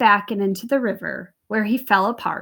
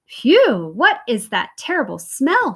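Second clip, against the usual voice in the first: cried out; 3 semitones higher, 5 dB louder than usual. Acted. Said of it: "she cried".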